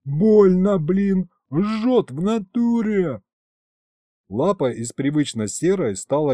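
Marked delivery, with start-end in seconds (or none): 0.0-3.2 громко и высоко, от жгучей боли; вопи, тряся обожжённой лапой; крик от боли. A narrator's reading. Бес обжёгся самогоном. (бес кричит от боли в обожжённой лапе, громко и высоко)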